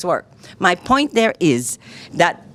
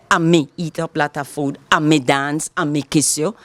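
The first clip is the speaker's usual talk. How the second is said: Creole sentence demo; 5 semitones lower than usual. Shown as a demonstration. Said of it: "I have to say".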